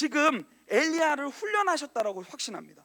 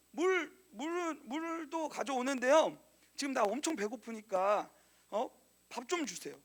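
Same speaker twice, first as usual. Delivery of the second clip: softer, slow, pleading; mock needy Elijah; 3 semitones lower, 7 dB quieter, slower than usual. Preacher voices Elijah begging the widow, softly. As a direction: play Elijah begging for food, much softer.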